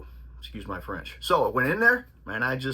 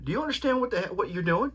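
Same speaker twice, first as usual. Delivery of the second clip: much higher, mock furious yell at the fighter; retold trainer yell; 7 semitones higher, faster than usual. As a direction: replay the trainer screaming, pitched way up. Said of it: "just yelled and screamed and said".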